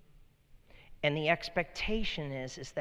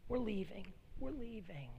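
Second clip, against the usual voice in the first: small, higher voice, softly giving in; lightly voiced demon, quiet and higher-pitched; retreating demon; 5 semitones higher, 7 dB quieter than usual. Demon inside the man gives up at the cross, meekly. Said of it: "the demon within this man starts saying".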